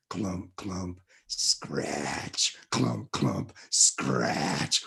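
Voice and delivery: very low, slow spooky sound effects; spooky clumping. Retold or imitated. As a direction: drop deep to scare the child. Dad's scary story sound effect.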